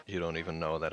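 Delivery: bad British put-on; terrible British accent. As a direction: scold in a badly faked British accent. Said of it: "I'm terrible at this".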